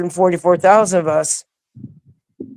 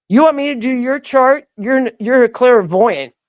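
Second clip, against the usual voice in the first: incredulous; 6 semitones higher than usual. Retold or imitated. Astonished at the clairvoyant's request.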